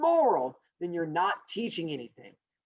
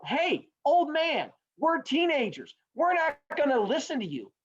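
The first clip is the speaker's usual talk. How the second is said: mock bratty teenagers; 9 semitones higher than usual. Teenagers talk back to the old man, mock bratty. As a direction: imitate teens refusing an elder's advice.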